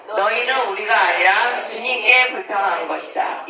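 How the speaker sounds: measured group reading aloud; scripture reading. Acted. Teacher leading listeners in reading scripture aloud, measured recitation. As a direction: read the verse evenly, phrase by phrase.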